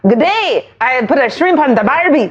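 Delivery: badly faked Australian accent; hammed-up attempt at Australian. Shown as a demonstration. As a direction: have a go at stock Australian phrases. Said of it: "What about Australian?".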